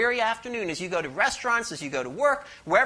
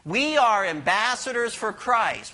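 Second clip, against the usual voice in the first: slow call for the congregation to repeat. Shown as a demonstration. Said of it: "Say that with me".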